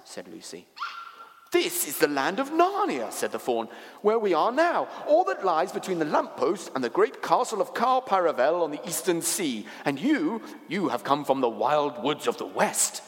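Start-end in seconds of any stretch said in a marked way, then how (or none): 1.5-13.0 higher, grand faun voice; excitable creature giving a lofty explanation; eager, explaining faun. Acted. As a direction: proclaim the land with lifted pitch.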